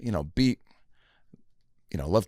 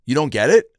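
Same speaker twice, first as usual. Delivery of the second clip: louder, higher disbelieving question; incredulous kid; 6 semitones higher, 8 dB louder than usual. Retold or imitated. Kid to the man who didn't laugh, incredulous. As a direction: push it up in mock disbelief.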